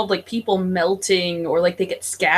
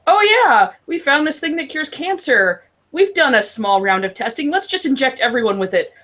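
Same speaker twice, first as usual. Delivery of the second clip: mock scientist voice; 4 semitones higher than usual. Acted careless drug company.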